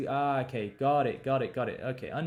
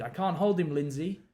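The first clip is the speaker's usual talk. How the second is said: a touch of Bradley straining, slightly louder; strained plea; 3 semitones higher, 4 dB louder than usual. Acted. Bradley calls to Lindsay, mild strained plea. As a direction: read it as him losing grip.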